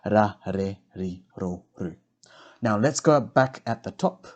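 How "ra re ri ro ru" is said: "ra, re, ri, ro, ru" with each R a soft D-like tap; spaced syllable drill with soft tapped R. Shown as a demonstration. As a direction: tap the R softly like a D, one syllable at a time. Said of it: "reo R sounds correctly".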